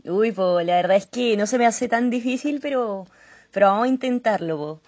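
put-on light Chilean accent with po; casual Chilean Spanish, introducing herself. Introducing herself to the show hosts in Chilean accent. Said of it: "Acento chileno".

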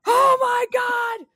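high, loud strained whisper scream; whisper yelling. Retold or imitated. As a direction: shriek it but keep it hushed. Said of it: "we're whisper screaming".

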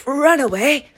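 small feeble imitation, slow at the end; a limp, withered little whimper; withering little voice. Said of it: "the most withering little voice".

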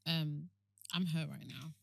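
soft, restrained admission of hurt; holding back tears. Acted. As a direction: keep it quiet and contained on the phone. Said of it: "I could wanna cry".

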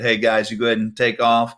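mock casual goodbye to the guys; casual Jesus sending-off. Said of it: "So he basically said".

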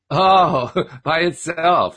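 chuckling through "by itself"; mocking laugh. A narrator's reading. Don laughing at Richard's claim, teasing chuckle. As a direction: tease him by laughing out "by itself". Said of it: "He was laughing at me".

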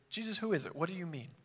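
softened, confidential question; mock whisper. Disciple leaning up to Jesus at the table, hushed. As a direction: ask privately in a hushed voice. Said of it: "leaned up to whisper and said".

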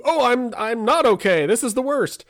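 high, loud whiny despair; mock wail. Father mimicking daughter's meltdown, high and loud. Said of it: "snaps back to".

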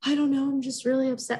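lightly acted tearful answer; retold tearful upset. Crying new mother answering her worried mom, mildly tearful. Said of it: "And I just was crying, crying".

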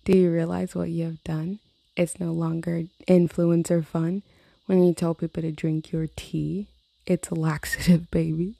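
reading her own song lyrics aloud. Real, not acted. Vlogger reading her influencer song lyrics, lightly mocking. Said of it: "here are the lyrics to this song".

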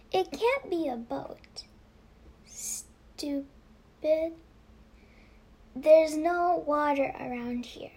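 mocking denial, rising in volume; scornful. A narrator's reading. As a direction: scoff at the idea.

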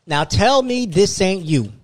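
laughing, rising to a loud high shout; retold call-out. Storyteller replays catching her lie, ending in a laughing shout. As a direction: build from a slow tease to a triumphant yell. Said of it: "And I was like".

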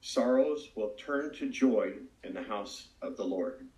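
slow, measured, solemn pronouncement; lightly voiced divine answer, unhurried; voice of God. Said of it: "But God answered and said".

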